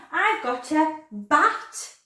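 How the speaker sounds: slow, drawn-out teaching voice. Shown as a demonstration. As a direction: stretch each word slowly. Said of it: "say it with me".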